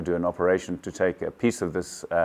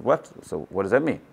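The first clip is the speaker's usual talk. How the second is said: retold shock. Patient hearing his cancer diagnosis from a friend, retold shock. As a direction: re-enact being taken aback, pitch jumping up.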